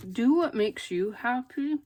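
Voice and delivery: talking around a pin held in lips; words muffled by a pin in the mouth. Real, not acted. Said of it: "Sorry, pin in my mouth".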